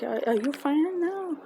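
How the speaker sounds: retold concern, voice lifting; caring check-in. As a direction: imitate him checking kindly on a fan. Acting out his gentle check on her.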